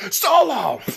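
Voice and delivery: hammed-up angry summons; angry call. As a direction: bark the name like an upset boss. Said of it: "he gets all flustered and angry".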